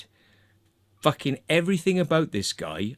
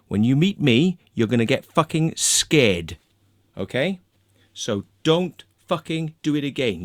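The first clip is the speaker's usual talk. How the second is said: retold tirade, building louder and more aggressive; angry telling-off; 3 dB louder than usual. To the hacker who threatened him, a louder, menacing retold rant. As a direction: lay into him, menacing and contemptuous.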